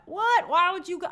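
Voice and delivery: high, loud disbelieving what; incredulous. Pretend. Host baffled by the studio hiring choice, incredulous.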